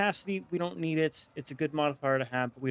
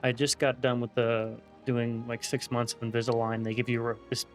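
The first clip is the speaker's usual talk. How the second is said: slight lisp from a retainer; talking with a thick retainer in; wearing a retainer. Real, not acted. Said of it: "I feel like I have a little bit of a lisp".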